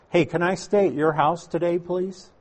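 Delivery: lightly pleading, rising on please; a meek asking tone, not what was said; mock polite request. Preacher mocks a timid request Jesus never made, mock pleading. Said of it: "Not what he said".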